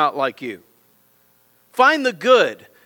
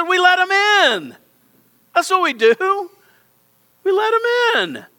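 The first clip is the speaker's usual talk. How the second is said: emphatic retold answer; 12 semitones higher, 4 dB louder, slower than usual. Retold pastor's firm answer.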